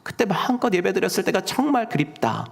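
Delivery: understated, sighing yearning; long gently for days gone by; wistful longing. Acted. Exiled poet missing worship in the homeland, wistful. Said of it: "고국 땅을 그리워하면서".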